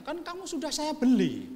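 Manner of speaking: high, loud mock husband; husband claims he bought his wife, high and loud; smug husband voice. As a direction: play the smug husband who owns her.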